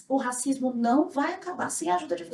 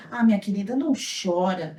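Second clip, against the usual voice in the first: imitated consoling; 5 semitones lower than usual. Canteen owner consoling an attacked girl, imitated soothing tone. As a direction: lower the voice to comfort a child. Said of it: "Aí ela falou assim pra mim".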